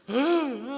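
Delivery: loud, high mock sobbing groan; demonstrated wail. Shown as a demonstration. Preacher practising Mary's wail for listeners, demonstrated wail. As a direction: imitate bitter sobbing at high pitch. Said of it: "한번 연습해볼까요?".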